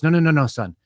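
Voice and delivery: very slow, spelling it out to a slow learner; slow explaining boss. Retold or imitated. Boss patiently spells the phrase out for his employee, very slow. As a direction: drag each word like explaining to a kid. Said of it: "can you use it in a sentence".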